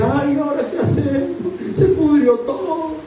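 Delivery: high-pitched hammed-up dismay; mock despair. Preacher parodying a God who has given up, high mock despair. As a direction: wail it in mock helplessness, drawing it out. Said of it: "No llora porque te dice".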